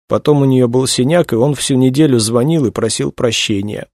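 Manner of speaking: high female character voice; upset young woman. A narrator's reading. Young woman describes the artist to investigators, upset. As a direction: recount it pitched well up, upset.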